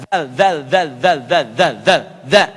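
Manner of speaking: "zal" with tongue between teeth, th-like; "zal" drilled as voiced th; Arabic zal. Shown as a demonstration. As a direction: bite the tongue lightly on "zal". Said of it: "Lidahnya digigit sedikit".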